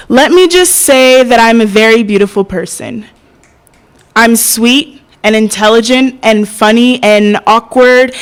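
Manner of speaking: performed poetry with deliberate pauses; spoken-word poem. Acted. Poet answering the angry black woman stereotype, spoken-word delivery. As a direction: recite it to the room with pointed emphasis.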